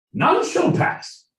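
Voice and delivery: very high, slow royal British proclamation; royal British accent. Acted. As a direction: draw it out in a falsetto regal British voice. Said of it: "in the royal British accent".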